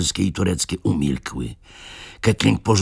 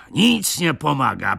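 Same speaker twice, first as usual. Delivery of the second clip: higher, breathless echo of the grumble; winded, pitched-up exasperation; higher exasperated repeat; 10 semitones higher than usual. A narrator's reading. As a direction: throw up your hands again. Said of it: "mówił przerywanym głosem, sapiąc".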